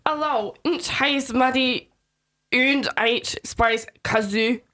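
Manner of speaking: put-on German accent. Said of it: "how to do a German accent".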